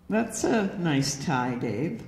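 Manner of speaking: slow mock compliment, dropping low on the name; sarcastic inflection. Shown as a demonstration. Woman comments on Dave's tie with a hidden message, sarcastic. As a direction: let the inflection undercut the praise. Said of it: "ask a man something somewhat sarcastically".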